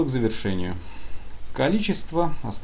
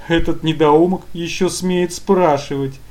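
higher, louder, slow furious boss; angry; 7 semitones higher, 8 dB louder, slower than usual. Acted. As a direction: spit it out, enraged. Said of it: "Вопрос явно разозлил начальство".

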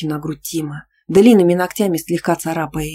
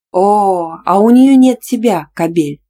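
louder, higher furious bark; jealous bark; 3 semitones higher, 7 dB louder, slower than usual. A narrator's reading. Jealous girlfriend barks an insult at her boyfriend. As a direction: snap it out, jealous and stung. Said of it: "рявкнула я".

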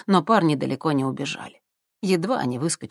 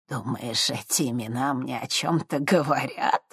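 predatory smirk; 4 dB quieter than usual. Acted. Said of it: "хищно усмехнулась мадам Анаит".

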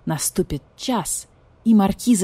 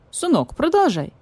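good-natured; 9 semitones higher than usual. Acted. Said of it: "добродушно улыбнулся барсук".

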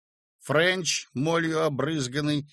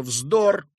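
louder stern dismissal; 5 semitones higher, 6 dB louder than usual. A narrator's reading. Yura dismissing the landlady's fears, stern. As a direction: shut it down sternly. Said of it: "строго сказал Юра".

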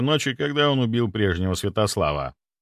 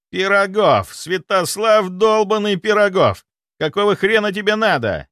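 furious shout; 9 semitones higher, 5 dB louder than usual. Acted. Nikolai furious at seeing hero.

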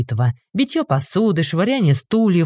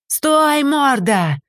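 much higher angry yell; 10 semitones higher, much slower than usual. A narrator's reading. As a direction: yell after the fleeing thief. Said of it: "заорал трактирщик". (трактирщик орёт вслед)

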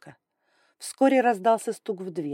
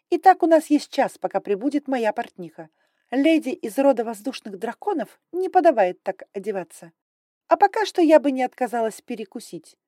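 higher, louder, brisk and imperious; haughty dragon lady; 5 semitones higher, 6 dB louder than usual. Acted. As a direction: talk down like a strict aristocrat. Grai voiced high and loud.

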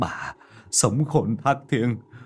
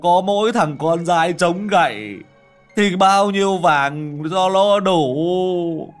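slow, loud, higher anguished lament; despairing wail; 5 semitones higher, 6 dB louder than usual. A narrator's reading. Husband fears the ghost took their son, slow loud anguished wail. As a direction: wail as if soul is lost. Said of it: "như là người mất hồn".

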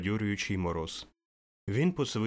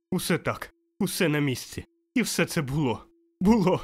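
excited wonder; 3 semitones higher, 4 dB louder than usual. Acted. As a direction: point out each spot with glee. Scrooge excitedly recognizing his room. (захоплене здивування)

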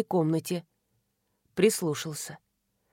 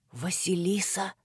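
hoarse; 3 semitones lower, 6 dB quieter than usual. Acted. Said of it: "хрипло сказал Кирши".

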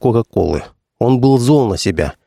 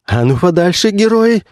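wheezing challenge; 9 semitones higher than usual. Acted. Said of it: "прохрипел он".

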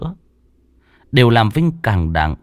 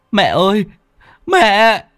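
much higher, louder cry into the night; screaming; 10 semitones higher, 5 dB louder, slower than usual. Acted. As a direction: call out desperately for mother. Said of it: "mà gào thét". (gào thét gọi mẹ trong đêm)

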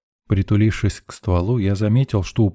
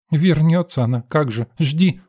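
higher, scoffing sarcasm; mocking snort; 8 semitones higher than usual. A narrator's reading. Lady in the queue scoffing at the girl, mocking. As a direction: sneer at the idea. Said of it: "насмешливо фыркнула".

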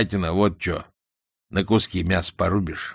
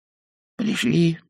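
high, slow, tired goblin voice; weary; 8 semitones higher, much slower than usual. A narrator's reading. Goblin halts at the bushes with his captors, weary. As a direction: draw it out wearily. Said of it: "сказал леший устало".

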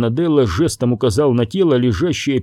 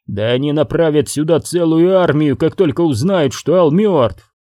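raised, heated scolding; angry rant; 4 semitones higher than usual. Acted. Boss ranting at henchman about the army coming, angry raised voice. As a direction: tear into the reckless henchman.

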